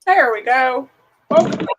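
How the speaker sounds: loud, bright greeting; loud welcome. Real, not acted. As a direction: call out a welcome. Greeting a returning guest.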